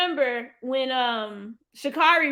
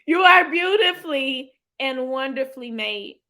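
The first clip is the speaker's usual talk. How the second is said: tearful; 4 dB louder than usual. Real, not acted.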